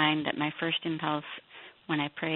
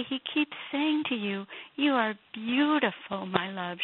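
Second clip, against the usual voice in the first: retold teaching; 5 semitones higher than usual. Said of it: "and you say".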